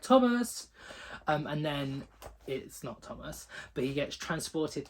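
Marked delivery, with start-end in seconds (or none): 0.0-0.7 high, loud call of the name. Retold or imitated. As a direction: shout the name as if spotting him. Calling out to Thomas in a story.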